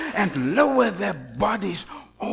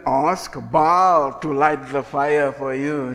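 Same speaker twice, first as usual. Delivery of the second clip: Elijah's challenge; 4 semitones lower, 4 dB louder, slower than usual. Retold or imitated. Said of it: "Elijah says to them".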